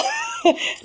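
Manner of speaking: a sudden high-pitched laugh; high laugh burst. Real, not acted. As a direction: crack up at the double meaning. Laughing at a pun.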